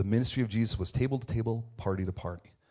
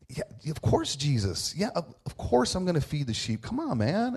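mildly exasperated, higher-pitched protest; Peter; 4 semitones higher than usual. Acted. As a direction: act out a touch of impatient insistence, pitch climbing at the end. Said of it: "feel like Peter's saying".

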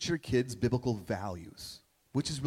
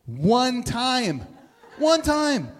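high, laughing through the words; 8 semitones higher, 5 dB louder, much slower than usual. Real, not acted. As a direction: let the laugh break into it. Laughing while starting the anecdote.

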